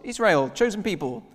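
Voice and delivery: high, insistent protest; indignant pleading. Retold or imitated. People protesting to Jesus they belong, high and insistent. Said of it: "And they're saying".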